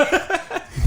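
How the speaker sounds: a sudden high airless laugh of disbelief; shocked high laugh; high breathy laugh. Real, not acted. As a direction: burst into a squeaky silent laugh. Shocked at stripper news.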